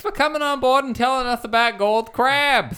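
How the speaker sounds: bright mock-cheery host with a lisp; lisping host thanking his guest; Murray's lisp. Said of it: "It's really hard to do a lisp for this long".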